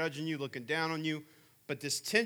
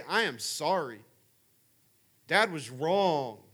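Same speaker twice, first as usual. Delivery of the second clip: put-on slow, earnest apology to the kids; slow sincere apology; slower than usual. Father apologizing to his kids, slow and sincere. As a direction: say it slowly, meaning it.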